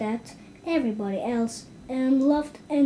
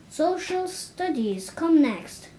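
eager; 5 semitones higher, slower than usual. Acted. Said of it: "cried Elizabeth Gardner eagerly".

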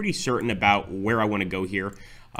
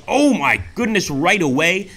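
surprised; 7 semitones higher, 6 dB louder, slower than usual. Real, not acted. Surprised at incoming hits.

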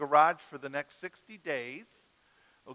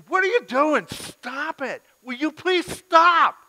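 put-on high, loud exasperated yelling at the kids; mock scream; 13 semitones higher, 13 dB louder, slower than usual. Tired dad yelling at his wrestling boys, hammed-up scream. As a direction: shout over the wrestling boys, at the end of your rope. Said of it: "scream at them and say".

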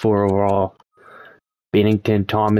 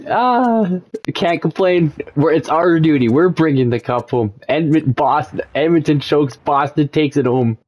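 excited; 6 semitones higher than usual. Real, not acted. Reacting to Bruins winning.

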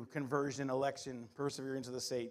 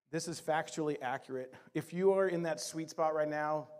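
ordinary talk

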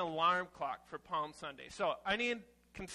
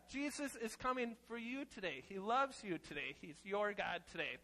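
gentle reassurance; 6 dB quieter than usual. Acted. Tender message after alarm.

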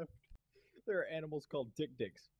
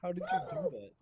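high astonished question; amazed; 4 dB louder, faster than usual. Real, not acted. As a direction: squeal it in disbelief. Amazed at teammate's play.

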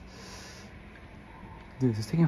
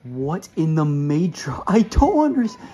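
exasperated; 6 dB louder than usual. Real, not acted. Confused by the level.

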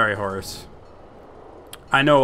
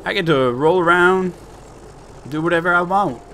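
higher, chirpy cartoon tank; duck tank voice; 6 semitones higher than usual. Player voicing his happy tank to the audience, higher cartoon voice. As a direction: voice a cheerful little tank, pitched up. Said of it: "He's like".

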